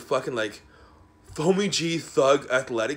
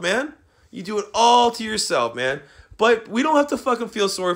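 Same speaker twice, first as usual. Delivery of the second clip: higher and louder, hurling insults; furious tirade, voice raised; angry shouting; 5 semitones higher, 4 dB louder than usual. Real, not acted. Berating a whole community, shouting angrily. Escalating rant at a group.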